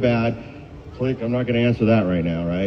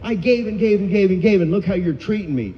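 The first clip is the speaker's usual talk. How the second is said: angry rant; 7 semitones higher than usual. Retold or imitated. Fuming in the car at his gambling family, angry higher rant. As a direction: let the grievance build as you list it.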